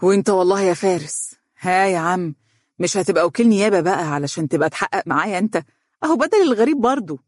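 lightly mock the interrogators; teasing. Sheikh teases his old friend Faris about becoming a prosecutor, playful. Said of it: "قال بلال مداعبا".

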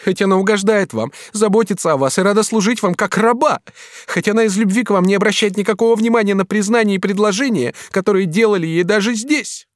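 lightly voiced young woman, reproachful; young woman's voice. Katrin reproaching the master, lightly voiced woman.

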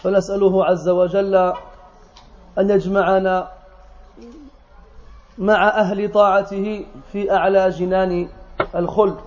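brisk, even-toned Arabic invocation; formal sermon opening. Acted. Speaker greets brothers in the mosque after prayer, formal sermon opening. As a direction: recite the formal Arabic opening at a quick, level pace.

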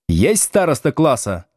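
a touch of threat, teacher to class; menacing teacher. Acted. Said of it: "грозно спросил он".

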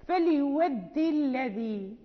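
slow recitation stopping on a held الذي; recitation broken off. Shown as a demonstration. Teacher showing where the breath runs out, slow recitation cut short. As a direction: recite slowly and halt after the long ii of الذي. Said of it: "ولكن إذا انقطع النفس".

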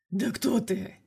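a gruff, changed voice snapping the question; lightly voiced thug barking at an intruder; growled demand. A narrator's reading. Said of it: "рыкнул ... Гарик". (грубо рыкнуть вопрос)

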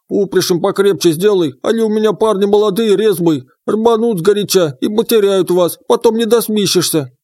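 high croaky frog spirit; teasing croaking frog voice; frog creature voice. Acted.

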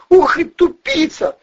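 high squealing shriek, slow and loud. A narrator's reading. Blonde squealing at dumbfounded Valeriy, shrill shriek. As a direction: squeal it out in contempt. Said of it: "взвизгнула блондинка".

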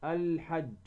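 الحج with the L of the article sounded; L fully heard before the H in الحج; clear lam. Shown as a demonstration. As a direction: say الحج as al-hajj, L distinct. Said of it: "نظهر هذه اللام".

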